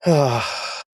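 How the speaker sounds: heavy exhaled sigh; weary-sounding sigh. Real, not acted. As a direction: let out a long breath. Heavy breath before reading on.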